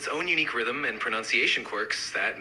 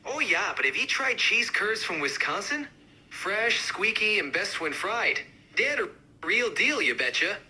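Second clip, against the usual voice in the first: higher, more pronounced Wisconsin accent; amped-up Wisconsin accent; 3 semitones higher than usual. Shown as a demonstration. Cheese curd fan countering others, amped-up Wisconsin accent. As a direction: push the Wisconsin sound. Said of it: "really amp up the accents".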